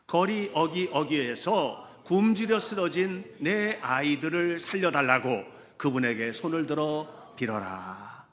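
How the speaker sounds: slow, loud congregational reading; deliberate, projected Bible reading; scripture reading aloud. Acted. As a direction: lead everyone through the verse in measured phrases.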